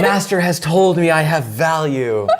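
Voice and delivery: hammed-up grateful servant; mock servant. Groveling servant thanking YouTube for praise.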